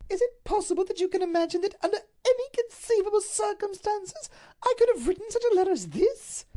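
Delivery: high, loud, crying protest; tearful outrage. Acted. Duchess rejects the letter as hers, tearful and loud. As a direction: sob out the disbelief.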